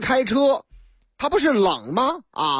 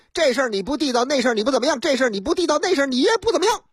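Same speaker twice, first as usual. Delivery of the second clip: bickering; 4 semitones higher, much faster than usual. Acted. Two bickering, tit-for-tat.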